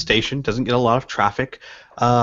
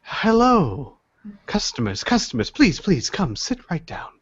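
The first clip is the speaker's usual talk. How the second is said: put-on elderly tea shop keeper; 6 semitones higher than usual. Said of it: "you hear".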